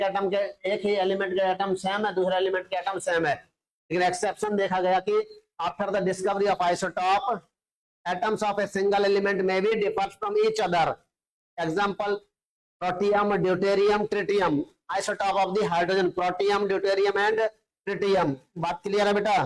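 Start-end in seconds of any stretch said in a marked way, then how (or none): 5.6-16.1 spelling out the notes word by word for students to copy; slow, measured dictation pace. Shown as a demonstration. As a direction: read it out slowly so the class can write it down. Dictating the exception slowly.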